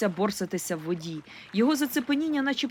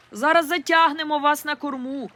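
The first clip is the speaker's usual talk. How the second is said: high, loud call; boy shouting from the boat; 6 semitones higher, 5 dB louder than usual. A narrator's reading. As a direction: yell an offer across the water. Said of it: "крикнув Стефан".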